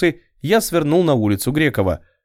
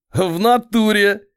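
high, slow giggle; giggling; 8 semitones higher, slower than usual. A narrator's reading. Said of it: "хихикнул мелкий". (хихикая)

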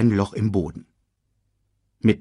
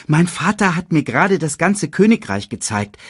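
put-on high, eager child's voice; boasting cub; 9 semitones higher, 5 dB louder than usual. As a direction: brag loudly to your uncle. Young Simba boasts to his uncle.

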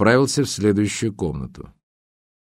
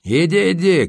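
high-pitched irritated cry; shouting; 8 semitones higher, 4 dB louder than usual. A narrator's reading. Sotnikov yelling back at the monkey, raised high cry. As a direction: call it out, pitch jumping up. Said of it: "крикнул Сотников".

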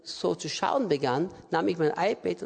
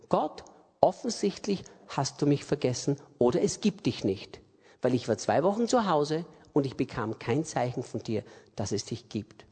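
retold resigned prayer; 5 semitones lower than usual. Retold prayer of doubting woman.

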